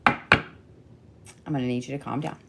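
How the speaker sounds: slow, deliberate, soft calm-down; slow soothing. Real, not acted. Reader slowly soothing overexcited Leos, firm and calm. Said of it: "I told the Leos to calm down".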